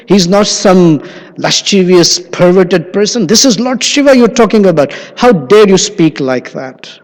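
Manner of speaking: a wife defending her husband, lightly voiced fury; indignant objection. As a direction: scold him for the insult. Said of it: "she took objection".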